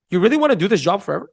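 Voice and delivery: quick, curious, calmer question; good tonality. Shown as a demonstration. Coach questioning someone's job with good tonality, curious. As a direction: ask it lightly and curiously. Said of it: "use good tonality with bad wording".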